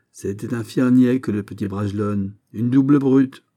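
high, loud sarcastic tirade; exasperated mockery. Captain mocking the youth's deadly plan, exasperated. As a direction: rail at his foolishness.

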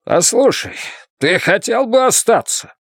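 gruff question, pitched well up; almost barking. A narrator's reading. Bluenote awkwardly asks Blaise to stay, almost barking. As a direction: put it abruptly, just short of a bark. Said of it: "Потом чуть ли не рявкнул".

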